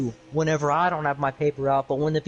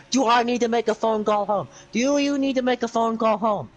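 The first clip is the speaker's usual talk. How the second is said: mock teacher threat; 3 semitones higher than usual. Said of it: "That's actually what you said".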